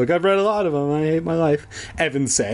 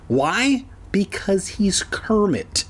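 screamed; 6 semitones higher, slower than usual. A narrator's reading. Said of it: "Andy screamed".

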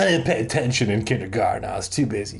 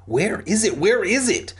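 higher-pitched, frantic searching; 10 semitones higher than usual. A narrator's reading. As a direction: repeat it with rising urgency and pitch. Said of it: "I searched frantically".

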